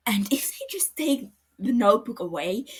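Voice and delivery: urgent whisper; hushed plea. Acted. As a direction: drop to a whisper to make the point. Matsuda pleading, drops voice.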